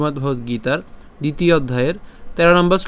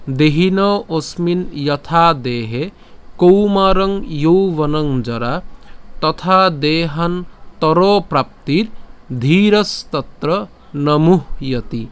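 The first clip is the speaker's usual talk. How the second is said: slow, careful recitation of the verse; 3 dB louder, much slower than usual. Shown as a demonstration. Teacher reciting from the start for practice, slow. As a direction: recite word by word, clearly and slowly. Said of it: "উচ্চারণটা করি, কেমন হবে".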